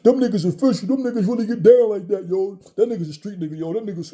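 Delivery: mock a hyped street-talk YouTuber; podcaster impression. Mocking a podcast host hyping street credibility, loud and high. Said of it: "as soon as you see a black podcast".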